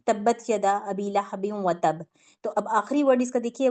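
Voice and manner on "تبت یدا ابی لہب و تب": slow recited verse with qalqala on تب; Quran recitation. Shown as a demonstration. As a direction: recite the ayah slowly, pressing the final ب. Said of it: "آیت number one دیکھیے". (آہستہ تلاوت)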